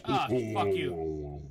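low, slow, startled curse; startled annoyed curse. Real, not acted. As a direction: spit it at the monster. Scared by monster.

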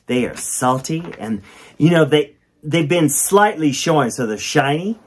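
sing-song storybook reading; reading to children. Acted. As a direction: read it like a kids' rhyme book. Reads the book aloud.

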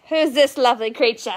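vaguely Australian put-on accent; wobbly mock-Australian accent; British accent gone Australian. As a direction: aim for British, land on Australian. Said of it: "That was kind of Australian".

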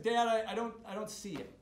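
calling out to dad, loud at first; shouting downstairs. Retold or imitated. Son calls down to his father: loud calling out. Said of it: "And I shout out".

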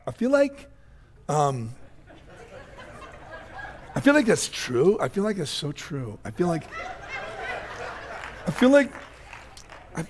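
high, whiny mock voice with laughs; mock a whiny bearded boy; preacher mocking boys who overshare feelings, whiny and high; mocking imitation. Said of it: "No, I am mocking you".

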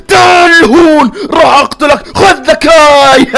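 slow, drawn-out battle yell; battle shout. Acted. Fire creeper charging the snow creeper, hammed-up battle yell. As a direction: bellow the attack as you strike.

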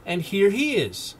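put-on high, eager children's voices; children crying out. A narrator's reading. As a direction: announce it like excited kids. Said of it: "cried the other children".

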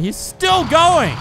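high, slow amazed shout; loud stretched-out disbelief; surprised. Real, not acted. Car survives bullets.

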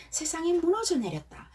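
high, dramatic cry of despair. Acted. Teacher acting the heartbroken lyric for the class. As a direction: sound like your world just fell apart.

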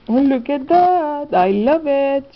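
high-pitched real delight; thrilled. Real, not acted. Crafter showing viewers a new find, thrilled. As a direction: exclaim it high, loving what you see. Thrilled by next haul item.

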